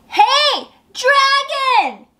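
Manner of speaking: high, loud "Hey, dragon!"; shout. Acted. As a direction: yell right into his ear. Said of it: "She shouted as loud as she could".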